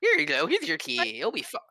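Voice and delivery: laughing in character. Real, not acted. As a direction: try to stay in character while laughing. GM laughing in innkeeper voice.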